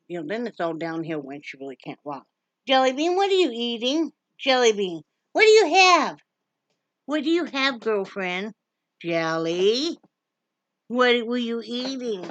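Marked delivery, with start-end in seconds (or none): 2.7-12.2 high, loud call across the room; calling out to the dog. Real, not acted. Owner calls the dog chewing something, high and loud. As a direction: sing out her name, higher and louder, to catch the dog.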